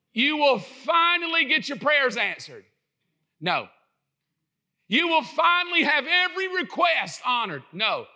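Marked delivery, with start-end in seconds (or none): 0.1-2.7 a big, loud grand voice for God, pitched higher; booming God voice. Retold or imitated. Preacher hamming up a showy God for the congregation, loud and grand. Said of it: "can't you hear his voice in that?". 4.9-7.6 higher and loud, a showman's promise; booming God voice. Retold or imitated. Preacher mocking a wish-granting God, loud and grand. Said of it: "can't you hear his voice in that?".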